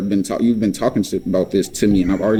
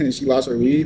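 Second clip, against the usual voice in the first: gloating laugh; 4 semitones higher than usual. Shown as a demonstration. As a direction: demonstrate a mock laugh at her loss. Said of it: "not laughing like".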